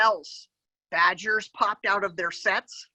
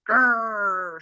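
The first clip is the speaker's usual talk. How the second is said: mock growl. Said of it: "she grumped".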